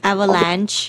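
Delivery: "Avalanche" ending on a ch sound, no extra syllable; corrected pronunciation. Shown as a demonstration. Co-host correcting the newsreader, "Avalanche" with a silent E. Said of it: "ออกเสียงถูกไหม".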